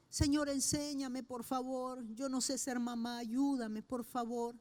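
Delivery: soft pleading prayer. Retold or imitated. Retold prayer to God.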